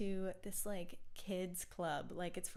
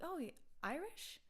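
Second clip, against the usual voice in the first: mock customer question; 8 semitones higher, 3 dB quieter than usual. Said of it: "they're like".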